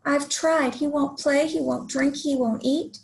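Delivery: a touch of discouraged sighing; sighed complaint. Acted. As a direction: read it as a mildly disheartened child's lament. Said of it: "Izzy sighed".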